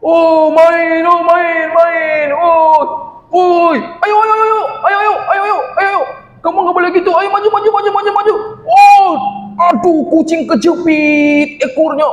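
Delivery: excited gamer shouting. Acted. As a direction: yell at the screen while playing, cheering yourself on. Bobon shouting while gaming.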